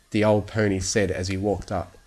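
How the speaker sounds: ordinary delivery, nothing marked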